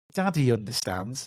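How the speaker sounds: plain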